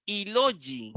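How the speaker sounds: "ilogi" as a single joined word; "ilogi" with no break after the first "i"; run together as one word. Shown as a demonstration. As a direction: attach unaccented "i" straight onto "logi". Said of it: "Se pronuncian".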